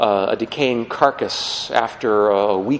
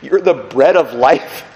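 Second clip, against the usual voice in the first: baffled listener. Acted. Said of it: "you're sitting there thinking".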